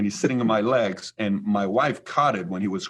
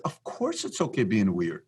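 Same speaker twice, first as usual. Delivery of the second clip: softer and slower, tender and sure; gentle reassurance; 4 semitones lower, 5 dB quieter than usual. Retold or imitated. Father comforting his son called weird, soft and slow. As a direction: soothe a worried child gently.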